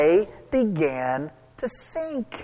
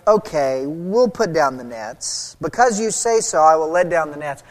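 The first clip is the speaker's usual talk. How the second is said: sarcastic; 5 semitones lower than usual. Retold or imitated. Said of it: "said very sarcastically".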